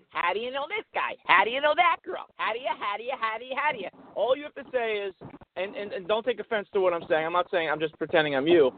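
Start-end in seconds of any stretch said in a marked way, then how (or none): 0.1-3.9 pestering mock wife with repeated questioning; nagging wife. Imagined wife grilling her husband about a girl, nagging. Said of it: "if she says".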